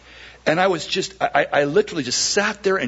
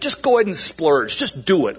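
shouted encouragement; 4 semitones higher than usual. Retold or imitated. Pastor calling across to the lady in the booth, mock shout. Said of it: "as I shouted across the way".

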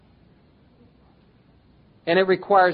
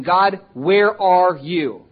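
slow, louder, half-laughing mock whine; whining at God; 8 dB louder, much slower than usual. Preacher mocking the Israelites whining at God, slow and louder. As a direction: stretch out the complaint with a laugh. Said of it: "Because they're whining".

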